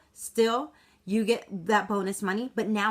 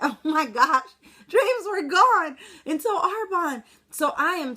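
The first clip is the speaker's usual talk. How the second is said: higher, louder and slower, voice welling up; emotional, close to tears; 6 semitones higher, 5 dB louder than usual. Real, not acted. Telling her audience her dreams were gone, near tears. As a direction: let the feeling break through.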